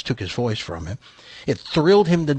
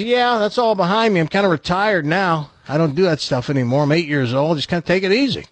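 lightly voiced retired dog, higher pitch; casual, higher dog voice shrugging it off; talking dog; 5 semitones higher than usual. Dog tells buyer he's retired, lightly voiced talking dog. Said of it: "And the dog says".

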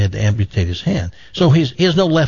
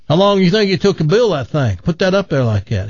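a hint of a Texan, pitched a bit higher; lightly voiced loudmouth Texan; bragging Texan; 5 semitones higher than usual. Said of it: "Texas buddy".

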